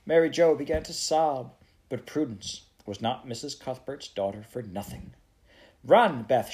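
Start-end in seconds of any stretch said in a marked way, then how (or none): 5.8-6.5 loud, urgent command; ordering. Acted. Prue sending Beth for help, ordering loudly. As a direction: order her off at once. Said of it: "she ordered".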